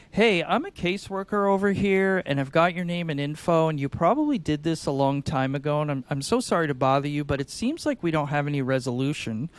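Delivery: gentle confused caseworker, asking for help; sing-songy confused. Shown as a demonstration. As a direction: sound politely puzzled, sing-song. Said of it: "a little bit of a sing-songy, like, I'm confused".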